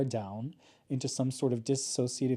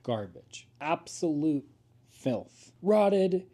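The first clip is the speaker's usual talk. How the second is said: mock grim; slower than usual. Mock grim announcer description.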